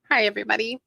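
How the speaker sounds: light chirpy customer service greeting; sweet helpful clerk tone. Pretend. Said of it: "I'm gonna use my customer service voice".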